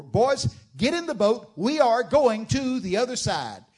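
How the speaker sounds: high, loud command to the boat crew; Jesus calling the boys. Retold or imitated. Jesus orders the disciples into the boat, loud and high. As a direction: call them into the boat with authority. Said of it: "and Jesus said".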